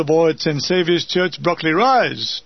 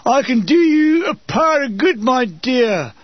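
catcall; 4 semitones higher, 3 dB louder than usual. Retold or imitated. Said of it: "cries like".

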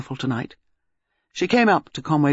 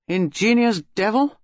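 gruff colonel voice; 4 semitones higher, 3 dB louder than usual. A narrator's reading. Melchett voiced by narrator.

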